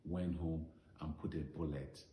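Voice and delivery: storytelling verse recital, line by line; measured recital that sinks to a hushed close; poem recitation. Acted.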